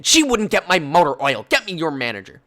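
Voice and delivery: imitated angry shout. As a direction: shout at the worker. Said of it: "Angry lady starts shouting again".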